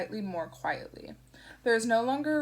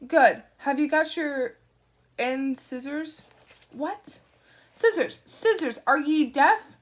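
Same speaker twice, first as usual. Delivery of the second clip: barking sergeant; 6 semitones higher, 9 dB louder, slower than usual. Acted. Shadwell barking down the phone.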